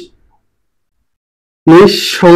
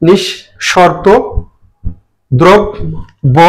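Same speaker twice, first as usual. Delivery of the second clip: slow careful reading; much slower than usual. Shown as a demonstration. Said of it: "teacher reads list slowly".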